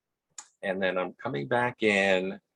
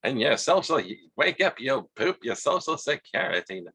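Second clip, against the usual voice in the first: Katharine Hepburn; 3 semitones higher than usual. Retold or imitated. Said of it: "Katharine Hepburn".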